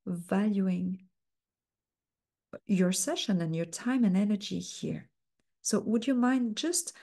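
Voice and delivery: gentle coach interrupting, softened throughout; soft, slow interruption. Shown as a demonstration. Coach softly interrupting a client's story, gently. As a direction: ease in softly, full of softeners. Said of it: "lots of softeners, tone of voice very soft as well".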